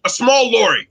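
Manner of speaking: put-on high, inquiring British officer accent; terrible British accent. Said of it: "I will do my terrible British accent".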